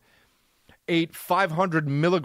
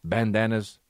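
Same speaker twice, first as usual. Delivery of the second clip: tough dog voice; 5 semitones lower than usual. Pretend. Trash dog brags to owner about eating trash, lower cocky voice. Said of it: "He's like".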